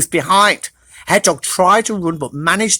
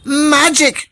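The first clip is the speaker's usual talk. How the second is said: excited shout; 9 semitones higher than usual. Acted. Hickory cheering at the magic nuts, high shout. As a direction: shout with joy. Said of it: "shouted Hickory".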